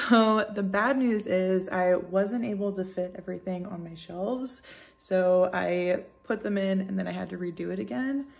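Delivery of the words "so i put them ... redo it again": breathless from lifting books; out of breath. Real, not acted. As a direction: talk while still catching your breath. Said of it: "freaking out of breath".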